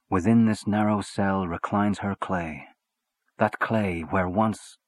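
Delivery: slow verse reading; poem recital. Acted. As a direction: read the lines slowly, distracted. Reads poem over crying child.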